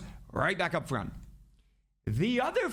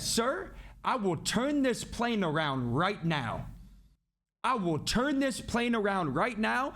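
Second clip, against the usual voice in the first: deliberate, emphatic imitation of an attendant's warning; mock-authoritative, each word of the threat weighed; retold stern ultimatum; 4 semitones higher than usual. Flight attendant warning a drunk passenger, retold stern ultimatum.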